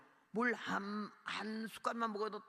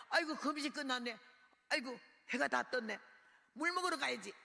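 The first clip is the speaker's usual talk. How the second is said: exclaiming to self; 4 semitones higher than usual. Retold or imitated. Waking up, talking to self.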